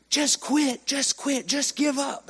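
high-pitched drill instructor yell; imitated yelling. Drill instructor goading a crawling recruit to quit, yelling. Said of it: "he was yelling at me".

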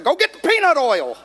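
chuckling order; laughing through it. Retold or imitated. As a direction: hold back a laugh as you say it. Laughing while retelling his order.

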